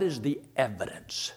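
sudden hushed whisper, almost secret. Real, not acted. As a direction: lean in and whisper the question. Pastor drops to whisper mid-question.

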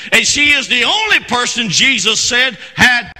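loud, driving pulpit delivery; full-force preaching. Real, not acted. Preacher telling the church of her unique faith, full-force preaching. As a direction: preach it hard.

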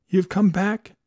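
put-on old man overjoyed his love is back. A narrator's reading. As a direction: let the joy burst out the second time. Danby repeats, swelling with joy.

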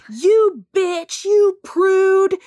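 high, loud mock yell of insults; retold yelling. Rejected pilot yelling insults up the stairwell, mock yell. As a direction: yell it up a stairwell after someone. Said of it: "he's yelling up the stairwell".

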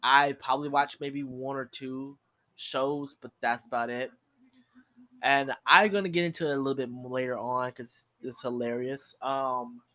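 talking while chewing cereal; crunching cereal. Real, not acted. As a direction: mouth full of crunchy cereal. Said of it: "if you hear me crunching, that's because I'm eating cereal".

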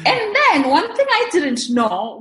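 a laugh breaking in as she starts the story. Real, not acted. Guest laughing while telling the host her arrival story.

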